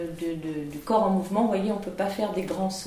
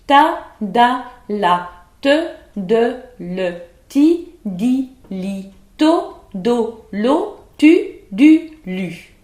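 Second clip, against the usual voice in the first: quicker syllables, still striking each T loud; faster diction drill; 6 dB louder, much slower than usual. Shown as a demonstration. Teacher speeding up the syllable drill for students, faster. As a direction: speed the drill up but keep the attack. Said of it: "On accélère un petit peu".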